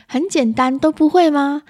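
high, loud exasperated question; irritable mother. Acted. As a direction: act a mum who has lost patience with a learner. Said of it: "暴躁的妈妈会这样说". (暴躁妈妈高声不耐烦地质问)

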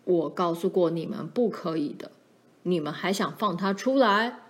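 understated stern father's reproach; a touch of threat in a father's voice; frightening scolding. Acted. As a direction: scold the children with mild menace. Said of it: "爸的声音更可怕了".

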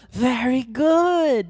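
slow, high, drawn-out "Very good"; mock fancy English. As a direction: ham up the "Very good" like a posh teacher. Teasing an exaggerated English phrase.

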